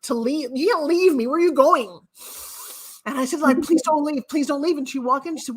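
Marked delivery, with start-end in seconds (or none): 0.5-4.8 retold pleading. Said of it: "I'm hysterical crying".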